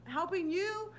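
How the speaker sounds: high, loud, indignant comeback; indignant retort. Real, not acted. Streamer arguing with the co-host over money, indignant.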